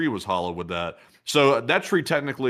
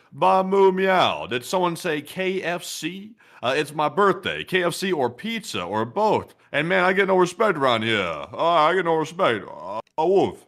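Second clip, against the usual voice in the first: silly voice; 5 semitones higher than usual. Acted. Reads donor's silly message aloud.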